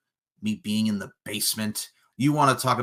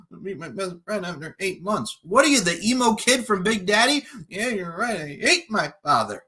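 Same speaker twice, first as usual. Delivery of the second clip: higher, louder whiny mock voice building to a fake sob; mocking imitation of opponent; 5 semitones higher, 6 dB louder than usual. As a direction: mimic the rival like a dramatic crybaby. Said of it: "start talking like this".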